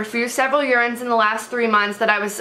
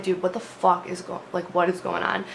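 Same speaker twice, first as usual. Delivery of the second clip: low, urgent hushed voice, trying not to be heard; hushed panic; 5 semitones lower, 6 dB quieter than usual. Retold or imitated. To Trevor as cops knock, hushed and urgent. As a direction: keep it down, the cops are right outside the door.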